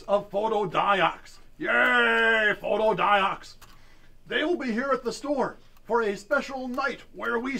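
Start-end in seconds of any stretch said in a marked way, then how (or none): 0.0-1.4 drawn-out hype. Acted. Hyping the sponsor. 1.6-3.5 loud happy cheer for the sponsor; excited cheer. Acted.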